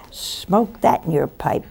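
whispered through a chuckle; chuckling aside; laughing whisper. Real, not acted. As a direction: tease them softly, half laughing. Teasing punchline to congregation.

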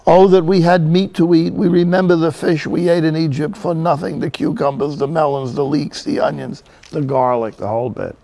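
complaining. Acted. Hungry people complaining to Moses about food, mock bellyaching. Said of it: "complaining to Moses all over the place".

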